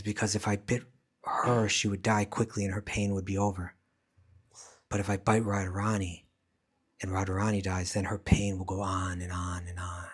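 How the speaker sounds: a hint of a snake, measured and low at the end; lightly voiced snake, trailing into a long low drone. Snake explains the bite to the doctor, lightly acted snake voice. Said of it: "speak in the voice of the snake".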